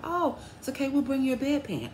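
high, soothing imitation of the tech; mild reassurance. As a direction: lightly act out putting a patient at ease. Nurse reassures embarrassed patient.

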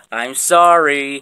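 slow, drawn-out sorry; insincere apology. Acted. Student apologising to the teacher, not genuine. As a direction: apologise without meaning it. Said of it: "that doesn't sound genuine".

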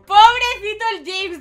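pitying cry. Real, not acted. Pity for the heartbroken James.

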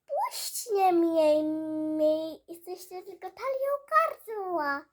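loud, slow pleading protest. Acted. Alice shouting at the guards holding her, loud. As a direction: shout at them to let go.

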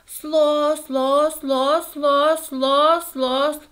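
high, loud syllables hammered out; insistent repeating. A narrator's reading. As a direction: drum the syllable over and over. Dog repeats syllable to show length.

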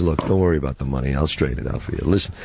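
quoting Sonny. Retold or imitated. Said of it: "and he says".

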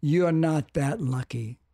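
slow, calm quote of a mentor. Retold or imitated. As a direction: say it slowly and evenly, as a calm retold verdict. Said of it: "looked at me very calmly and said".

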